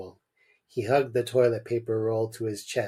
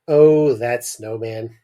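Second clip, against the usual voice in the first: long, louder drawn-out oh of delight; wondering delight; 6 dB louder, slower than usual. Acted. Tim describes an imagined snowman to Richard, delighted. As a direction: savour it slowly, lost in the imagined sight.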